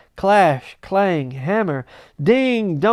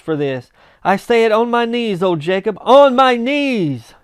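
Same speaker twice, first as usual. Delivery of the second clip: raised, loud, trembling with joy; fervent vow; 4 semitones higher, 5 dB louder than usual. Acted. Scrooge vowing to Marley, loud and fervent. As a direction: pour out a grateful vow. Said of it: "so fluttered and so glowing".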